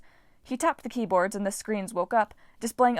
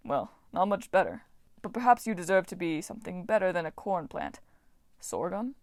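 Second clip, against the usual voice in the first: lightly voiced farm god. God voice, disdainful musing.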